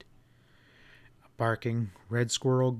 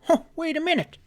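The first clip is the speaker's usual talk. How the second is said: put-on high, raised old man's call; calling out as grandpa; faster than usual. Grandpa calling the boy back from the door, raised. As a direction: stop him at the door, kindly. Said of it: "when Grandpa said".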